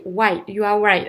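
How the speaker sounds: "white" where "right" is meant. Shown as a demonstration. Teacher showing a common learner swap, "white" with a W. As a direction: round the start of "white" into an oo. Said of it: "c'est qu'on inverse souvent".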